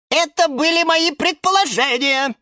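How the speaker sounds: very high, indignant squeal. A narrator's reading. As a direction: squeal it in protest. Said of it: "взвизгнул Лимон Филимон". (возмущённо взвизгнуть)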